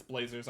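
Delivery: Blazers said with a long A and one Z sound; corrected pronunciation. Shown as a demonstration. Correcting the team name on air, corrected pronunciation of Blazers. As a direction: say Blazers like "blay-zers". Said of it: "I've been pronouncing the team wrong".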